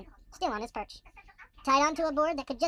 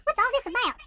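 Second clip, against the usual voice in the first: much higher, louder shout; crowd shouting; 10 semitones higher, 5 dB louder than usual. Acted. The amazed circus crowd shouts at the new creature, high and loud. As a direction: call out in wild surprise. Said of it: "the people came shouting".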